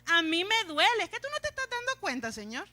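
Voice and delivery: high-pitched mock-tearful complaint; imitated pained wail of reproach; almost crying. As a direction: plead with God as if hurt, exaggerated. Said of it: "casi llorando".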